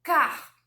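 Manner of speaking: "car" said alone, loud, with the final R pulled out; drawn-out R. Shown as a demonstration. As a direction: punch "car" and draw out its R. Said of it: "Esse puxadinho". ("car" forte, puxando o R final)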